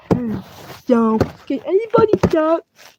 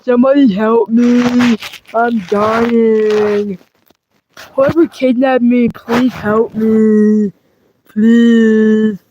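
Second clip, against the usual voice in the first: hammed-up dying cries; 4 semitones lower, much slower than usual. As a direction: beg for rescue like a goner.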